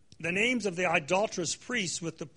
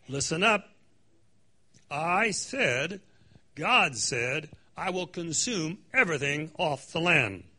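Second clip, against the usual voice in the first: loud divine command; 3 dB louder, slower than usual. Acted. Prophet speaking for God to the people, commanding. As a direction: call the people to attention.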